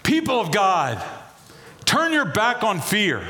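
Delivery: high, proclaiming call to a crowd; shouting. Acted. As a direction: call out as Jesus rallying his people. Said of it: "is Jesus shouting".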